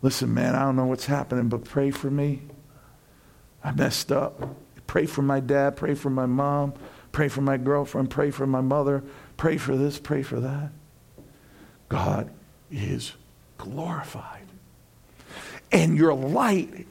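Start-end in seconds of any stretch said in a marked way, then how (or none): 0.0-10.7 lower, softer, desperate asking; humbled plea. Retold or imitated. Friend who messed up begging for prayer, softly. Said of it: "they say to you". 11.9-14.4 fading to a whisper. Real, not acted. Preacher whispering the point to the congregation. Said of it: "whispered ending".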